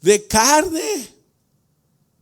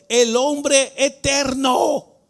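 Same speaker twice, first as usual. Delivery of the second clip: drawn-out shout; much slower than usual. Real, not acted. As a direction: stretch it out and shout it. Preacher stretching eternal man.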